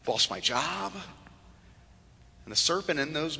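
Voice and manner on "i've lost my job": low, subdued, halting confession; soft voice of someone hurting; understated sorrow. Acted. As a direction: quietly list each loss, pausing between. Voicing hurting churchgoers listing their losses.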